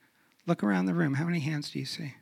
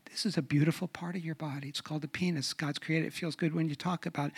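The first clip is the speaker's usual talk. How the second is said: gentle parent; 5 dB quieter, faster than usual. Shown as a demonstration. Demonstrates talking to child.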